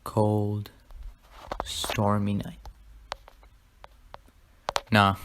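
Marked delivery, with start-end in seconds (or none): 0.0-2.6 storyteller's suspense with long pauses; portentous, pause-laden story opening; mock dramatic opening. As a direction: set up a fake scary tale, word by word. Mock spooky story opening, then "just kidding.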